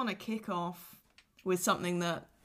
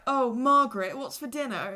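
mock casual; 4 semitones higher than usual. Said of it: "people walk in and be like".

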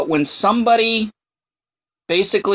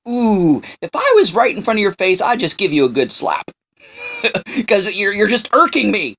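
mock frustration; 3 semitones higher than usual. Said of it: "I'm getting frustrated, I'm getting angry".

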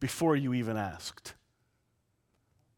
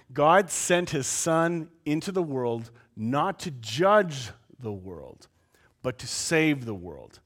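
each word slowed and weighted; slower reading; slower than usual. Shown as a demonstration. Pastor rereading the verse so the church hears it, slow. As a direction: let the verse sink in, slowly. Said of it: "Let me read that slower".

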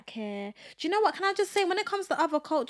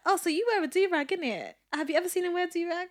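imitating nosy coworker; 6 semitones higher than usual.

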